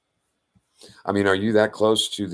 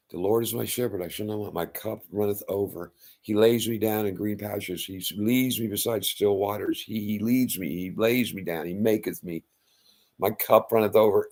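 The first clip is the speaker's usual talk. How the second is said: psalm recitation. Acted. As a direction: recite it gently like a prayer.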